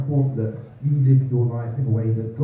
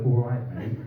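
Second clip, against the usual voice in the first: half-laughing reluctant greeting; reluctant reply; 2 semitones lower than usual. Retold or imitated. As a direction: mumble it back out of obligation. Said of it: "I'm gonna have to go".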